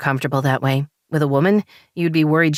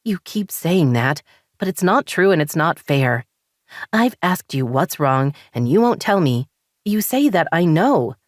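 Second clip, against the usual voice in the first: higher, frustrated rising voice; wife venting frustration at husband, higher and heated; 4 semitones higher than usual. Acted. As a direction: let the frustration boil over. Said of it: "frustration bubbling up inside".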